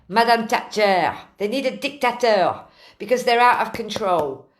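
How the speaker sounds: amateur put-on French accent, emphatic; bad French accent. Relaying Jean-Yves's verdict on the British, in a bad French accent. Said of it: "I'm doing a shit French accent here".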